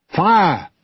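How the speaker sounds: loud, high command to fire; captain's battle cry; shouted order. A narrator's reading. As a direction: bark the order across the deck. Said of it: "Will ordered".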